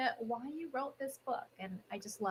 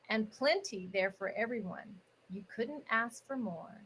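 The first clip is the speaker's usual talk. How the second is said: lilting, measured rhyming story narration; picture-book read-aloud. Acted. Host reads holiday picture book to online audience, storybook narration. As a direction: read each rhyming line with a swinging storybook cadence.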